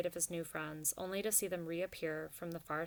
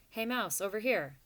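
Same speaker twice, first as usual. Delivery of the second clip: shouting over a crowd; 3 semitones higher, 5 dB louder than usual. Acted. Clutch calls Ragweed over the noisy crowd, shouting. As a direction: raise the voice to carry over the din. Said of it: "Clutch shouted over the din".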